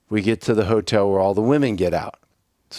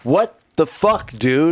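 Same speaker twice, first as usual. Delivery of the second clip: disgusted yell; 6 semitones higher, slower than usual. Retold or imitated. Storyteller yelling at the driver who just vomited, disgusted shout. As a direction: shout at him in disbelief.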